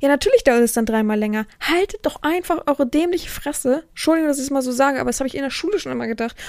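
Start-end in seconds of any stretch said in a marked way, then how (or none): 1.6-3.8 slow, higher-pitched exasperation; exasperated, each word stretched; fed up. Retold or imitated. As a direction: drag it out, fed up with the lot of them. Voices fed-up thought at noisy class.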